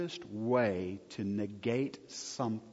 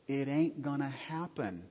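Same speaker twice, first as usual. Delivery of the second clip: Texas Greek; 3 semitones higher than usual. Shown as a demonstration. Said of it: "that's what I call Texas Greek".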